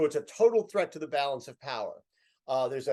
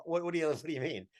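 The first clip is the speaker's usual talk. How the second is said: puzzled helmsman; 5 dB quieter, faster than usual. Retold or imitated. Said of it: "looks at me and goes".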